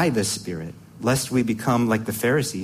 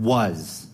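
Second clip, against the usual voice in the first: "was" set apart and drawn out for emphasis; emphatic, isolated "was"; stress on "was"; 2 semitones lower than usual. Real, not acted. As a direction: lean on the word "was". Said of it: "I want to emphasize the word".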